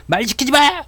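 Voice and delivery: high, hammed-up snap at whoever talks to him; mock snapped outburst. A day trader snapping at someone, mock angry shout. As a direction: play a frazzled trader snapping at interruptions.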